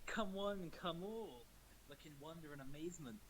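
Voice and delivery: barker opening the circus act; ringmaster voice. Acted. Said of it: "In my best ringmaster voice".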